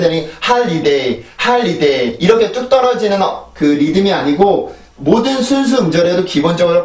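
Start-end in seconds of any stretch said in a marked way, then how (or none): 0.5-2.2 holiday with its last syllables dropping away; unstressed drop-off. Shown as a demonstration. Teacher showing learners the wrong rhythm, unstressed drop-off. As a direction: let the end of holiday fall off with no stress. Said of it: "강세가 전혀 없이 그냥 뚝 떨어지는".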